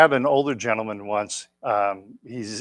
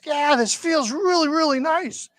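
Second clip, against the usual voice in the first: imitating old man. Old man enjoying shoulder circles, high and savoring. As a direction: lean into "really" like he's blissed out. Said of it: "He goes".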